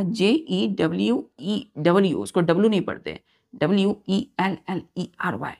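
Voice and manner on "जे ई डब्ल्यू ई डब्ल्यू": spelled out slowly. Shown as a demonstration. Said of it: "मैंने आपसे कहा".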